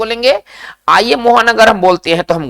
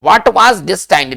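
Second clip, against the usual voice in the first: each English word spaced out very slowly; slow dictation; much slower than usual. Shown as a demonstration. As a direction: spell it out slowly for the class to repeat. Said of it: "इस बात को हम कैसे कहेंगे".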